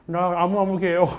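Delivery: put-on Korean with a heavy American accent; overdone foreign pronunciation. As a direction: roll the tongue like an English speaker. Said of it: "한국말 이런 식으로 하는 거죠".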